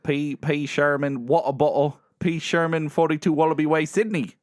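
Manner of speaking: attempted Australian accent. Shown as a demonstration. Co-host building up his accent, in wobbly Australian. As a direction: feel your way into an Australian accent. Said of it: "I gotta build up into it".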